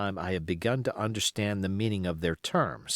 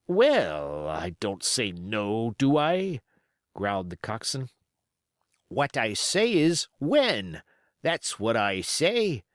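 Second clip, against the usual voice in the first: coxswain Israel Hands, impatient; slower than usual. Acted.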